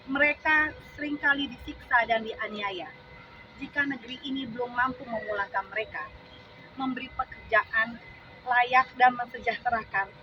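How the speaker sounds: measured, deliberate verse reading with pauses; poem recitation. Acted. Reciting a poem about the nation's suffering children, solemnly declaimed. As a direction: declaim each line of a protest poem.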